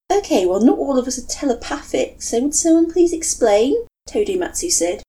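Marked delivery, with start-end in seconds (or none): 0.1-3.9 louder, rising exasperation; fed up, demand an answer; exasperated. Acted.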